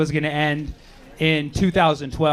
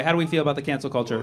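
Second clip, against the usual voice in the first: faster repeat; 3 semitones lower, faster than usual. Shown as a demonstration. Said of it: "repeats question to crowd".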